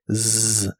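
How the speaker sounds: "Z" as a long voiced buzz; buzzing z sound. Shown as a demonstration. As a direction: hum the "Z" like a bee. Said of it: "la S se pronuncia de manera vibrante". ("Z" como zumbido vibrante)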